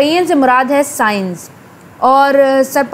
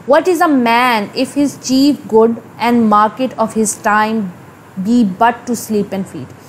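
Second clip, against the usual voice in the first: slow, lower-pitched reading of verse; text recitation; 3 semitones lower, much slower than usual. Acted. Teacher reading Hamlet's soliloquy to students, slow low recitation. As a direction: recite it slowly and deliberately, word by word. Reads the original soliloquy aloud.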